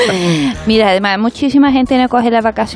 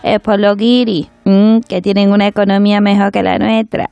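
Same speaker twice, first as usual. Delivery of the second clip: María Teresa Campos impression.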